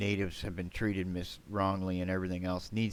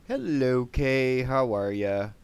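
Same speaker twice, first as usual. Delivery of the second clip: louder, higher cheery hello; loud greeting; 4 semitones higher, 6 dB louder, slower than usual. Real, not acted. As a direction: call out a welcome to the chat. Greeting chat loudly.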